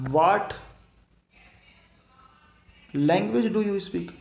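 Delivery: very slow, word by word; slow teaching read. Shown as a demonstration. Teacher reading the example slowly to students. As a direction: spell it out slowly for the class. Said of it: "तो मैं आपको बोलूँगा".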